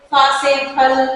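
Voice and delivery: फल opened with lips closed and a puff of air; both-lips pop on फा से फल; Hindi aspirated ph. Shown as a demonstration. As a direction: say फा and फल with Hindi "pha". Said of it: "Hindi में जिस तरीके से".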